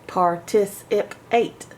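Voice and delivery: "Participate" said slowly and carefully as one word; slow whole word. Shown as a demonstration. Teacher blending "participate" back slowly. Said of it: "How many syllables".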